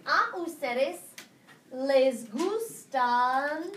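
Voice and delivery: very slow drawn-out les gustan; teacher dictating a question at a crawl; slow dictation. Shown as a demonstration. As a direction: stretch each syllable for note-taking. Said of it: "answer this question".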